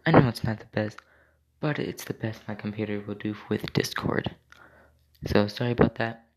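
bad Discord audio; tinny, low quality stream sound. Real, not acted. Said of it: "Sorry for the sound quality".

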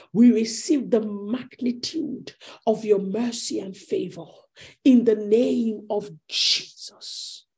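steady, emphatic prayer of declaration; earnest prayer. Real, not acted. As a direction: pray with conviction, leaning on key phrases. Continues leading prayer.

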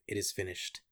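dying Jesus, soft and low; quiet last words. Retold or imitated. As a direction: let it fade like a last breath. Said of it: "Jesus announcing the end of his earthly life".

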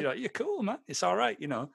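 high, starry-eyed admiration; mock starstruck praise. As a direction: gush over him like a fan. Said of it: "I'd be like".

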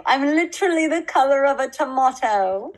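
a hint of her embarrassed gush; quoting Emma Watson. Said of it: "I'll send it to you".

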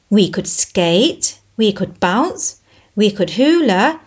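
dream aloud about what can't be, a touch of sadness; mildly sad and wishful; wistful, sad. Acted. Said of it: "said Simon sadly".

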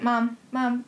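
Ma'am, ma'am with a bleating a; calling mam, a touch of bleat; sheep-like mam. Retold or imitated. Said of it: "they're saying I sound like a sheep".

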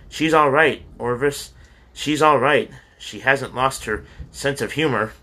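mother shaking father awake with relief; crying with relief. Acted. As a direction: blurt out the relief to her husband. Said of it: "She ran into the bedroom crying".

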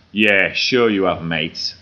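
slow, sneering disbelief; lightly played rude seller scoff; sarcastic retort. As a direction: drag it out, mocking him. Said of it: "a very rude Big Issue seller".

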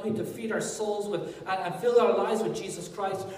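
ordinary talk, nothing marked

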